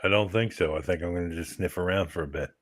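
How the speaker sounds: low, lightly voiced dog reply; a hint of a low dog character. Voicing the dog's answer.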